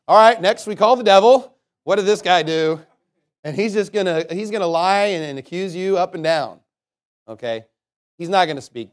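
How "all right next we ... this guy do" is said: louder courtroom call to a witness; prosecution team. Acted. Prosecutors calling their witness in jest, lightly acted courtroom voice. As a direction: call the next witness out briskly and loudly. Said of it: "They're like".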